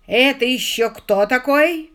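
громко и медленно, со злым рёвом; рявкнуть, растягивая слова от ревности; ревёт от ревности. Acted. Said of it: "взревел он". (ревнивый Ронни ревёт на Сью)

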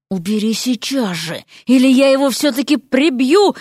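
tense threat, rising at the end; hissed threat. A narrator's reading. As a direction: threaten through a hiss. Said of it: "прошипел Эрик". (зло шипя)

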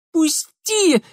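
high, loud squeal. A narrator's reading. Darinka pinned down, squealing at Mitya to let go. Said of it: "заверещала Даринка".

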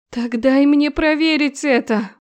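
громко, медленно, сквозь зубы; чеканить требование со злостью; процедила. Acted. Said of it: "процедила она". (невеста зло требует у жениха, медленно)

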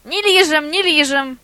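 high, loud yapping echo; little dog yapping along. A narrator's reading. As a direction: yap it back like a small lapdog. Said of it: "подтявкнул прихвостень".

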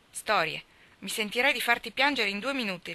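understated fury; furious. Acted. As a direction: taunt her with a hint of rage. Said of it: "ribatté Staffy infuriato".

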